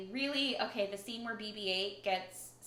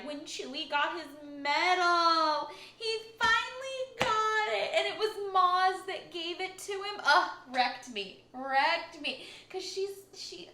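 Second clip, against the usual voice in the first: excited; 7 semitones higher, 4 dB louder than usual. Real, not acted. Gushing over Chewie's medal.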